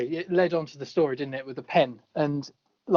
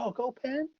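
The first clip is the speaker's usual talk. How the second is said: lightly voiced Murtaugh, higher and offhand; a quick mock of Murtaugh's casual aside; imitating Murtaugh; 8 semitones higher than usual. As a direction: Murtaugh impression, tossed off for a laugh. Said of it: "Murtaugh just walks in and goes".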